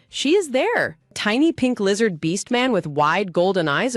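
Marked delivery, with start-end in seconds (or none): 0.1-1.0 screaming. A narrator's reading.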